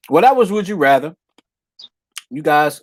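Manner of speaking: talking while chewing ice; words round a mouthful of ice. Real, not acted. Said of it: "I'm sorry, I'm chewing on ice".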